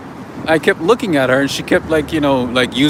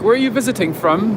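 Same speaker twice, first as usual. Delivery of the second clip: higher-pitched, lightly imitated London accent; mock London accent, pitched up; 7 semitones higher, faster than usual. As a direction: ask like a Londoner, English accent put on. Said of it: "London, they're like".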